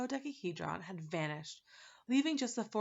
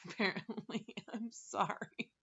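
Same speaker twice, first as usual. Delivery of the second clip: laughing; slower than usual. Real, not acted. Reader laughs at own slip.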